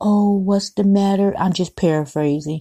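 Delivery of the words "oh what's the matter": put-on gentle, soothing voice. Retelling how a father talked to his crying newborn: imitating a father's gentle voice. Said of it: "He had a, a gentle voice".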